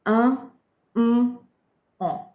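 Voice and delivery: "Un" and "en" nasal again, nose open, through the nose; French nasal vowels. Shown as a demonstration. Teacher repeating the nasals with nose open after pinching. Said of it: "it doesn't sound the same at all".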